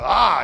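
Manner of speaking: short, loud "ah" cry; brief demonstrated yell; mock yell. Shown as a demonstration. Preacher showing what the Greek word means, mock yelling. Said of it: "you're yelling".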